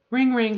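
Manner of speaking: playful phone ring sound; mock phone ring. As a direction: imitate a phone ringing. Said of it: "here's how a conversation goes".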